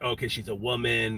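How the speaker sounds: ordinary delivery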